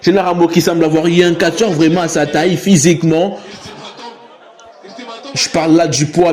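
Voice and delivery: usual speaking voice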